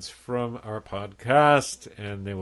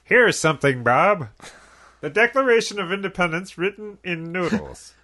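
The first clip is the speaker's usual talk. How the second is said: higher, put-on presidential impression; Gerald Ford; 7 semitones higher than usual. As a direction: mimic a president proudly presenting an exhibit, pitched up. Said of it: "an actual quote from Gerald Ford".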